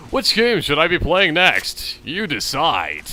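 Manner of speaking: slow, drawn-out announcer delivery; announcer sign-off. Pretend. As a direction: stretch it out like a show host. Announces the next episode.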